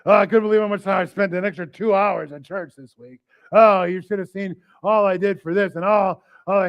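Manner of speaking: loud, slowed mock brag about serving; a mocking bragger who serves loudly; boastful churchgoer. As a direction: imitate a showy, self-praising churchgoer. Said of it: "we suffer loudly and serve loud".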